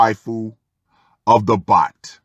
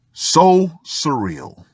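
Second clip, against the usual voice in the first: slow, drawn-out sarcastic aside; 3 semitones higher, much slower than usual. Acted. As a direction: drag it out with mock wonder. Mocking aside on the story.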